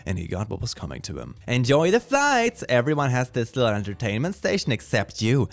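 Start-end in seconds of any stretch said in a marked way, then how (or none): 1.5-5.5 gloating taunt. Acted. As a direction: gloat at the bored passenger. Voices gloating airline seat.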